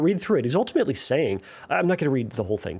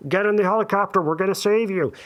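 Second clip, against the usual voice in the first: calling out; 6 semitones higher, 4 dB louder than usual. Retold or imitated. Helicopter rescuer calls down.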